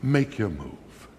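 slow, unhurried challenge with a long pause after okay; cool gunfighter. Acted. Othello facing down gunfighters, cool and slow. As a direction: let it hang like a western standoff. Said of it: "he'd just stand there and say".

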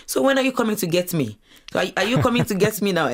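impatient mother. Retold or imitated. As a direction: press like a mom who can't wait. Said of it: "calling me now and asking me".

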